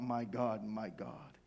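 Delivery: low, fading, hushed plea; subdued cry. Acted. Jesus feeling abandonment on the cross, hushed cry. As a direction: let the cry sink almost to nothing. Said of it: "he cried out".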